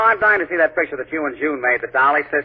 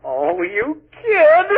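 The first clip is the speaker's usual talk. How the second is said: higher and very slow, stretched like a catchphrase; drawn-out flirty tease; 14 semitones higher, much slower than usual.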